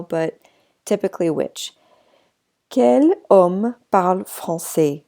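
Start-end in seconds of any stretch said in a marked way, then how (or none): 2.7-5.0 slow model sentence. Shown as a demonstration. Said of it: "Which man speaks French?".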